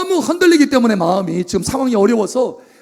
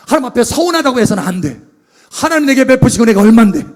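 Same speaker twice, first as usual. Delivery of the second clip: determined vow; 6 dB louder than usual. Acted. David resolving against complaint.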